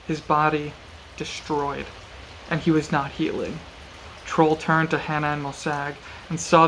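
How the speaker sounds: measured audiobook-style reading; story narration. A narrator's reading. Reading a brutal sword fight from the novel aloud, measured narration. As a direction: read it out evenly, with deliberate pauses.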